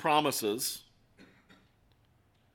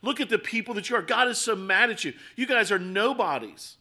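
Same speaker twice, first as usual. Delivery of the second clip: higher-pitched retold taunting; mocking; 5 semitones higher than usual. Preacher voicing enemies deriding God's people, mildly mocking. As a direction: imitate scornful enemies making fun, pitched up. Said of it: "They're making fun of them".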